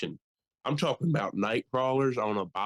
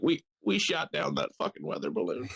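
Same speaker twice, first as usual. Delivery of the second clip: lightly mocked halting president; Joe Biden. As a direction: stumble into the announcement as a president parody. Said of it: "He's like".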